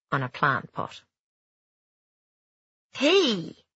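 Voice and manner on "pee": put-on high proud baby dragon chirp; squeaky baby dragon. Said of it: "he said proudly".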